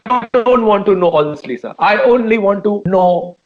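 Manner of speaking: very drawn-out, insistent question; slow mock-interrogation. Host presses singer for answer, very slow and insistent. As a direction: space out every word with mock gravity.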